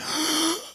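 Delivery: sharp, audible mock gasp; shocked gasp. Preacher imitates the house hearing Jesus' words, shocked gasp. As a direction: suck in a big breath, as the shocked crowd. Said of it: "everybody in the house went".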